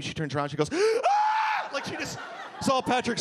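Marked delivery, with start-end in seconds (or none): 0.7-1.7 piercing high shriek; short shocked shriek; startled scream. Retold or imitated. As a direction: scream like you've seen a ghost. Woman startled recognizing him.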